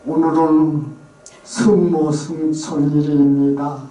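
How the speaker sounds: slow Chungcheong priest announcing the feast, 승모 for 성모; 충청도 신부 말투 흉내; Chungcheong accent. Retold or imitated. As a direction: mimic a Chungcheong priest at the mike, 승모 승천. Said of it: "충청도 사람은 뭐라 그러냐면".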